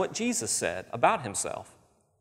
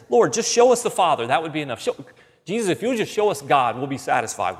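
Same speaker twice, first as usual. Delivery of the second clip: higher, louder pleading plea to Jesus; pleading Philip; 3 semitones higher, 3 dB louder than usual. Acted. Philip pleading with Jesus, higher and louder. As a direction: beg to be shown God. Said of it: "So Philip says to him".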